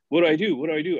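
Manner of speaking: lightly acted panicky pleading; mock panic. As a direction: imitate someone helplessly at a loss. Retold panicking manager repeats himself.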